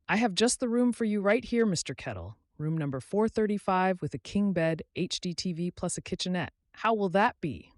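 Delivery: Sarah the clerk, a little flustered; young desk clerk. Acted. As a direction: sell him the room with a friendly lift. Sarah offers the room.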